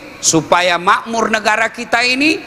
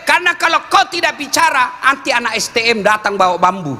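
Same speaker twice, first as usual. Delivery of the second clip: raised, higher pitch exhorting; preaching at a rousing pitch; urging shout; 9 semitones higher than usual. Real, not acted. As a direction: call out to lawmakers to speak up. Preacher urging parliament members to speak.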